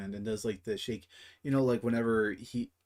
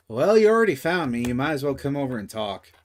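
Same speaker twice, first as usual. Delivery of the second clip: NPC voice; 3 semitones higher, 8 dB louder, faster than usual. Acted. NPC calls out from tent.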